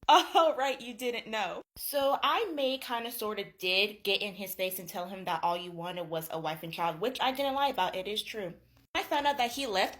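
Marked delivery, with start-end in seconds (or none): 0.1-8.5 mock-smug, airy confession. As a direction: imitate someone smugly letting a secret slip. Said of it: "feeling so smug about this".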